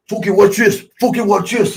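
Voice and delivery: egging everyone on to watch his stunt; excited boast. Retold or imitated. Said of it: "Davey Boy goes".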